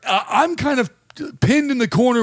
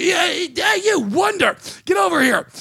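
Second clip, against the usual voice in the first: higher-pitched impatient summons; calling out; 6 semitones higher than usual. Retold or imitated. Comic summoning the promoter across the bar, calling out. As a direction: call him over from across the room.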